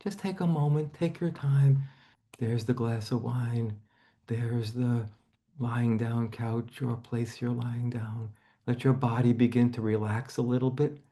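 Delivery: calm imagery guidance for a client; guided relaxation. Acted. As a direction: ease her into lying down, slowly.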